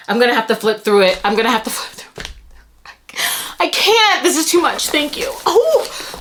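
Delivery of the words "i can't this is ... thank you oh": high, overwhelmed and holding back tears; happy near-tears. Real, not acted. Vlogger thanking the binder, trying not to cry. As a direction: fight off happy crying. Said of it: "we're not crying".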